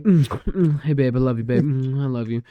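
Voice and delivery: kissy noises between sweet nothings; a touch of teasing couple baby-talk; mock lovey-dovey couple. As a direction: lightly imitate a smooching couple. Mimics lovey-dovey couples kissing.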